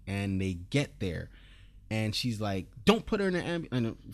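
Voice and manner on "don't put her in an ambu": urgent retold plea, higher pitch. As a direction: call out to stop them, higher. Retells Tandy running up urgently.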